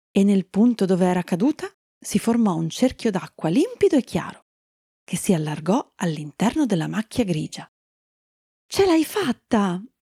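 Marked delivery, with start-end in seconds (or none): 8.6-9.8 high, thrilled, excited shout. Lily, watching a clear circle of water spread in the grey stain, excited shout. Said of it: "gridò Lily emozionata".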